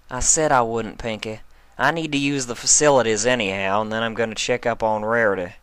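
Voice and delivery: a hint of a mare's voice, reassuring; lightly voiced Applejack. Applejack reassuring Pinkie, lightly voiced.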